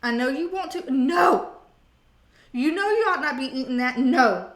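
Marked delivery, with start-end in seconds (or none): 0.9-1.5 loud, sharp no; firm no. Pretend. Scolding the viewer for bad habits, loud firm no. 4.0-4.5 loud, sharp no; firm no. Pretend. Scolding the viewer for bad habits, loud firm no.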